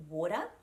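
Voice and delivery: water with a light D-like tap for the T; tapped T. Shown as a demonstration. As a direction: flick the tongue once in water. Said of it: "just a little tap of the tongue".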